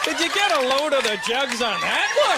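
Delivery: drawling, matter-of-fact Canadian guy impression; white Canadian accent. Comic imitates white Canadian guys sidling up, exaggerated Canadian accent. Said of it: "they make everything sound like it's the most matter-of-fact thing".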